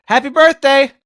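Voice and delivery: high, loud cheerful blurt; chirpy happy birthday. Retold or imitated. Man to grocery clerk closing his trunk, cheerful blurt. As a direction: blurt it out brightly. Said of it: "I said".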